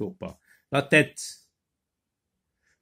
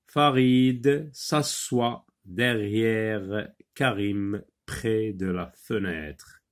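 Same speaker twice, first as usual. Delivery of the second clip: slow, word-by-word reading aloud; measured classroom reading with pauses; slow model reading; 2 semitones lower, slower than usual. Shown as a demonstration. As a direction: read it out slowly for learners, pausing between groups. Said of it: "On va lire".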